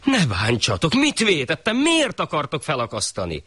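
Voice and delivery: high pleading cries; the porter begging the executioners; mild frightened pleading; begging little man. Acted. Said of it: "Az rimánkodott".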